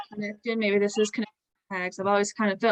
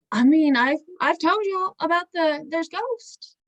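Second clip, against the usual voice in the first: put-on a half-slipped Texan accent, pitch climbing higher; slipping Texan accent; 7 semitones higher, 4 dB louder, slower than usual. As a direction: drift into a Texan accent by accident. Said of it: "That's not her accent at all".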